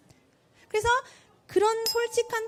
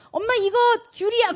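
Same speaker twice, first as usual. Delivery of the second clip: put-on little child; 8 semitones higher, 5 dB louder than usual. Small child showing mom a tangerine.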